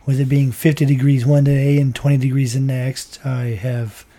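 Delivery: hoarse, worn-out voice from a cold; losing voice. Real, not acted. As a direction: talk through a voice that's almost gone. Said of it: "I don't have all my voice".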